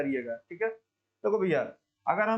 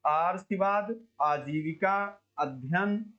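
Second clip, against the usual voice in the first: slow reading of option; much slower than usual. Shown as a demonstration. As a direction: read आजीविका out slowly as a choice. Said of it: "शुद्ध शब्द को पहचानिए". (आजीविका को धीरे पढ़ना)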